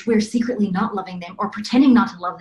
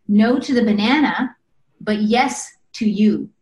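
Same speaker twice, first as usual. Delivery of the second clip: loving no; slower than usual. Shown as a demonstration. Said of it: "The energy you're feeling is, "I love you".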